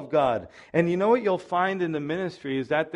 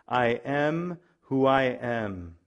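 solemn voice of God; 4 semitones lower, much slower than usual. Acted. Reading God's answer to Moses.

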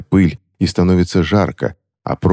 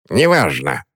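curt; slower than usual. Acted. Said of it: "отрезала старуха".

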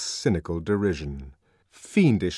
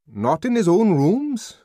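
high, loud rising query; slow, perplexed question; puzzled questioning; 10 semitones higher, 7 dB louder than usual. A narrator's reading. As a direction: ask incredulously, lifting the end. Puzzled friend sums up the search.

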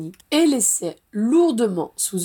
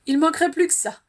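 a mild growl of indignation, pitched up; lightly voiced annoyed grumble; grumbling; 7 semitones higher, 3 dB louder, faster than usual. A narrator's reading. Ginny grumbles at Harry's remark, mildly indignant. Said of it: "gronda Ginny".

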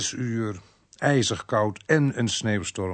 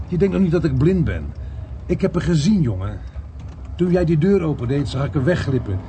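raised, higher voice, accusing; indignant telling-off, pitched up; angry reprimand; 3 semitones higher than usual. Acted. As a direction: confront a subordinate you caught out. Inspector angrily confronts his subordinate.

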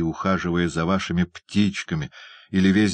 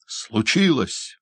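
higher, slow echo of "Случилось!"; indignant doctor exclamation; 4 semitones higher, slower than usual. Acted. Doctor echoes the hunchback indignantly. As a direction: throw his word back at him. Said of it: "воскликнул доктор".

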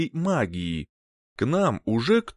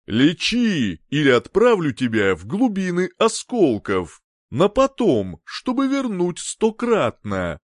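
menacing threat; 4 semitones higher, 4 dB louder than usual. Acted. Captor threatens the healer.

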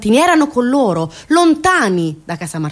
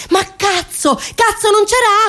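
anguished curse; 12 semitones higher, slower than usual. Real, not acted. Outburst over no water.

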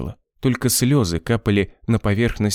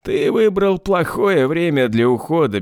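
smug sneer; 6 semitones higher than usual. A narrator's reading. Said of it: "Сова усмехнулся".

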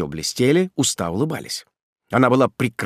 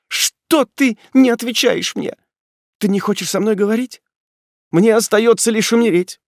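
despairing plea; 11 semitones higher, 5 dB louder than usual. Acted. Ethel on her knees begging Ordener to answer, loud and high. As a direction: plead as if your heart is breaking.

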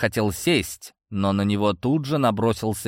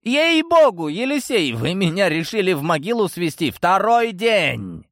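furious father growling; 8 semitones higher than usual. Acted. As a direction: roar at the useless son. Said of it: "прорычал".

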